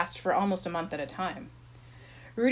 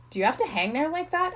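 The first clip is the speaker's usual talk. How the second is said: higher-pitched, irritated question; peevish grumble; annoyed; 7 semitones higher than usual. A narrator's reading. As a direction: complain up to the bunk above. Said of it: "asked Rudy in annoyance".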